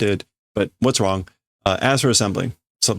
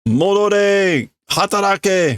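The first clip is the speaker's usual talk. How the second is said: angry shout; 8 semitones higher, slower than usual. Acted. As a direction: shout after the fleeing leader. Workers call the leader back.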